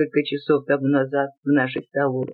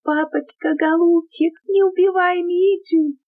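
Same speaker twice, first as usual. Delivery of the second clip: put-on hysterical little girl; 14 semitones higher than usual. A narrator's reading. Little Liza begs papa to stop, very high hysterical scream. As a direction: shriek like a terrified little girl near hysterics. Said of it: "закричала маленькая Лиза, чуть не до истерики".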